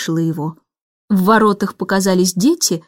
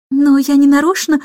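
surprised drawl; 4 semitones higher than usual. Acted. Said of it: "удивлённо протянул Майкл".

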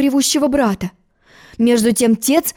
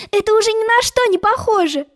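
giggling; 11 semitones higher than usual. A narrator's reading. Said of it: "хихикала Алиса".

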